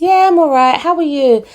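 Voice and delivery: high chirpy yeah; bright young self. Retold or imitated. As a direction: answer sweetly, unsuspecting. Acted dialogue, her younger self.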